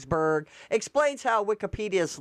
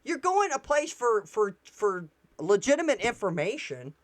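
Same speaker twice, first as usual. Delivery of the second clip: retold shock. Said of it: "I was like".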